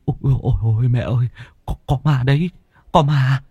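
high, breathless, stammering whimper; panting, near tears. Acted. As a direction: gasp it out on the verge of crying. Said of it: "Phùng thở hổn hển mếu máo".

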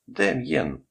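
high-pitched cry of the name; narrated cry. A narrator's reading. Mother calling to her terrified child in the car, high narrated cry. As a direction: call out high, without much extra volume. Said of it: "закричала Катерина".

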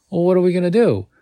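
Derry demands an answer, loud and urgent; demanding. A narrator's reading. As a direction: push hard for an answer. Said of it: "Derry demands".

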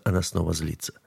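usual speaking voice

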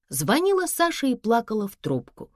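usual speaking voice

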